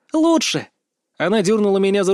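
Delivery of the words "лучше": high-pitched gleeful exclamation; excited teasing. Acted. Sister dismissing brother's guesses, excited. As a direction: burst out high, bursting with news. Sister bursting with secret news.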